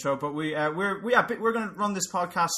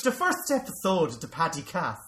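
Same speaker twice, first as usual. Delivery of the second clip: put-on thickened Irish accent. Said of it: "your accent is quite soft".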